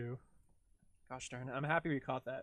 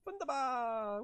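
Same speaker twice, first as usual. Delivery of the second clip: excited repeat; 9 semitones higher, slower than usual. Real, not acted. Cheerful echo of translator.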